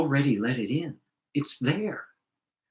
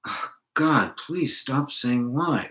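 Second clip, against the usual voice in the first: lightly voiced God, higher-pitched plea; mock pleading God; 4 semitones higher, slower than usual. Teacher imagining God praying about the nagging voice, mock pleading. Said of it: "is God sitting there going".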